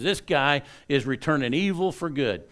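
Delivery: raging vow. Retold or imitated. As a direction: spit out the threat, fast and hot. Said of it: "he is still raging".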